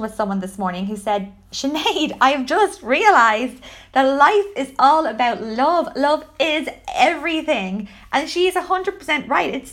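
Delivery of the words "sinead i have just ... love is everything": emphatic, louder retold revelation; heartfelt realization. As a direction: quote a friend's big realization with slow, weighty emphasis. Retells a friend's heartfelt realization.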